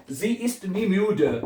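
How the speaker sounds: Ich komme nie zu spät, each word drawn out very slowly; slow dictation. Shown as a demonstration. Teacher dictating a German sentence to learners. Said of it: "क्या बनेगा".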